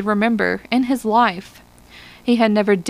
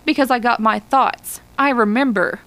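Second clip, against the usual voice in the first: mildly indignant, slightly raised; indignant cry; 3 semitones higher than usual. Acted. Lespierre answers Hollis's taunt, mildly indignant cry. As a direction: defend his memories with a touch of outrage. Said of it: "cried Lespierre, far away, indignant".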